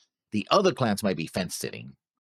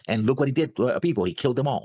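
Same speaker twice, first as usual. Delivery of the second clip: a hint of a hammed-up accuser, pitched up; mock outraged clan elder; 6 semitones higher, faster than usual. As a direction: play a self-righteous accuser rousing the crowd.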